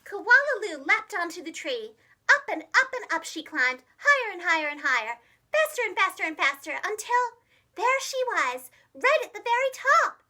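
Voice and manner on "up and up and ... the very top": faster, louder, rising to the top; excited narration. A narrator's reading. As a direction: build the tension up the tree. Climbing race climax.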